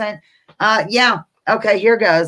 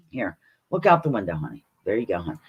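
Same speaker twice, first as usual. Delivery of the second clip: pet talk; 10 semitones lower, 5 dB quieter, faster than usual. Real, not acted. Talking to her dog Zoe.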